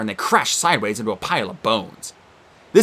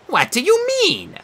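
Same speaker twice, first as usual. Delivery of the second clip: snapping; slower than usual. Acted. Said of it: "the Sphinx snapped".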